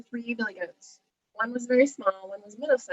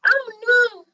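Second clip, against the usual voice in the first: high, loud cry of alarm; storybook squeal of dismay; little goat's cry; 12 dB louder than usual. A narrator's reading. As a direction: cry out as a tiny frightened goat. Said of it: "cried the billy goat".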